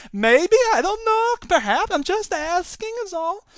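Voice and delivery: put-on a light, high stereotypical Jewish accent, slow. Host trying a stereotypical Jewish accent on a news story. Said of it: "do a stereotypical Jewish accent".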